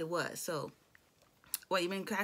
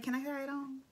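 cute; 5 semitones higher, 4 dB quieter, faster than usual. Retold or imitated. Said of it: "And Cammy was so cute".

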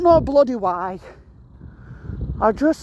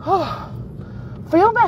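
shocked by cold; 9 semitones higher than usual. Real, not acted. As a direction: squeal at how cold it is. Feeling the freezing cold.

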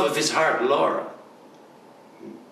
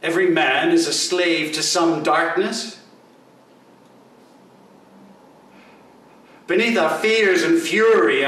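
impassioned plea; 2 semitones higher than usual. Acted. Answers objection with an impassioned plea.

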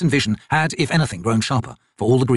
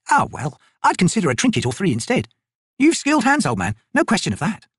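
higher, brisk soldier woman's voice; Picker, tough soldier; 8 semitones higher than usual. Acted. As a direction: voice the corporal, dry and sure of herself. Picker's voice in dialogue.

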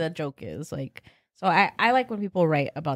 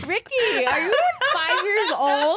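high-pitched laughing disbelief; laughing tease; 10 semitones higher than usual. Real, not acted. Co-host ribbing Ricky over his joke, laughing. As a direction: crack up while teasing him.

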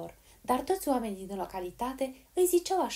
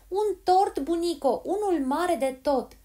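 high, very loud call; excited loud shout; shouting to be heard; 9 semitones higher, 9 dB louder, slower than usual. A narrator's reading. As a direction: spell it out loudly for granny. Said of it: "ca să o facă să audă".

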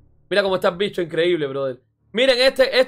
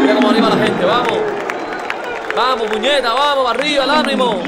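loud, rousing cheer; hyped cheering; 2 semitones higher, 4 dB louder than usual. Real, not acted. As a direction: pump up the crowd. Rallying the crowd. (ánimo a gritos)

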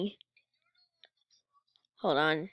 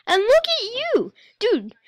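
high, loud and slowed exclamation; excited shout; 12 semitones higher, 6 dB louder, slower than usual. Real, not acted. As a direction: call it out in amused disbelief. Exclaims at the video.

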